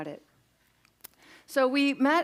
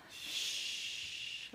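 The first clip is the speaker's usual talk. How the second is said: soft unvoiced shush; whispered shush; 12 dB quieter than usual. Shown as a demonstration. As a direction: hush the room with a shh. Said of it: "you're all gonna say".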